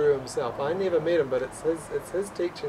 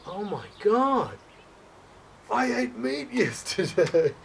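higher, laughing through the words; laughing realization; 6 semitones higher, slower than usual. Real, not acted. Telling a friend about eating meat, laughing at the realization. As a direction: laugh as the penny drops, a little slower.

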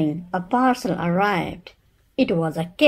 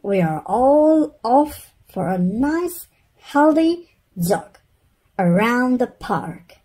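higher, louder bright announcement; bossy cheerful mum; 5 semitones higher, 5 dB louder than usual. Acted. Mother announcing the healthy jog, bossy and cheery. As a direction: sell the jog like it's a treat.

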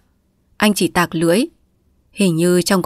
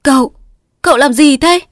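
high, loud frantic plea; panicked; 8 semitones higher, 6 dB louder than usual. A narrator's reading. Wife clutching her husband as he smashes the cabinet, panicked. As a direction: grab him and cry out in panic. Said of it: "cuống queo níu lại".

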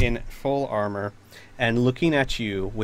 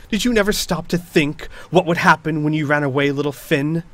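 spitting the words; 4 semitones higher than usual. Acted. Knight accusing her betrayer, spitting words. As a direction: spit out each word. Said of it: "almost spitting the words out".

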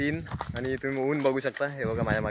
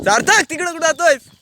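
much higher, louder worried shout; alarmed call; 7 dB louder than usual. Real, not acted. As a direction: call him back from the ditch. Son heading toward the drain. (काळजीने मोठ्याने हाक मारणे)

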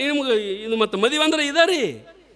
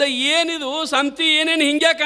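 puzzled husband; 4 semitones higher than usual. Retold or imitated. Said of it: "ಅವಂದ".

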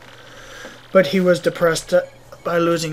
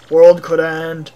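slow, loud echo of WORLD COULD END; lightly voiced Russian, weighing each word; pondering Russian mayor; 9 dB louder, slower than usual. Mayor mulls the visitor's warning, slow pondering echo.

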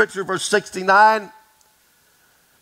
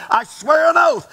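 emphatic oath; 7 semitones higher, 3 dB louder than usual. Acted. Peter swearing his denial.

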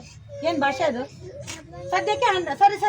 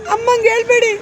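acted crying plea; 3 dB louder than usual. Shown as a demonstration. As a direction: demonstrate a tearful cry of pleading. Coach models crying plea. (ಅಳುವ ದನಿಯಲ್ಲಿ ಬೇಡಿಕೆ)

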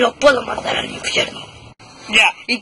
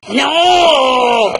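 shout; 2 semitones higher, 6 dB louder than usual. Real, not acted. Kid objecting during play.

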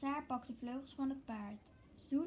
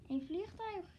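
excited squeal; 6 semitones higher than usual. Acted. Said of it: "gilt ze".

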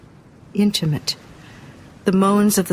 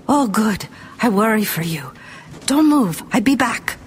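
put-on César's accented speech; 3 semitones higher than usual. César instructs hidden Angelique.

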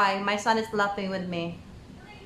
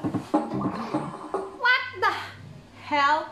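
stunned disbelief; 6 semitones higher, much slower than usual. Real, not acted. Stunned by singer's high note.

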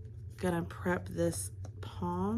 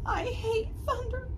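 whimper. Acted. Teacher voicing the monster whimpering about thunder. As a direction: whine like a frightened little creature. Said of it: "he whimpered".

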